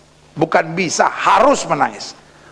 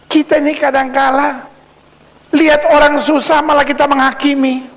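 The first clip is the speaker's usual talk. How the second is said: high, projected pulpit voice; emphatic preaching; 9 semitones higher than usual. Acted. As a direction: hold the pitch up and press the point. Preacher in raised delivery. (berkhotbah bersemangat dengan nada tinggi)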